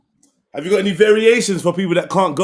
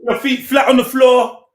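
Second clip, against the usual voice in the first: shouted cue; 3 semitones higher than usual. Real, not acted. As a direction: shout the form cue across the room. Calling out form cue mid-set.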